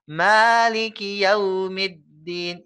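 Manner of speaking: Yaumiddin with the lips pushed forward on yau; rounded lips. Shown as a demonstration. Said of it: "bibirnya harus monyong".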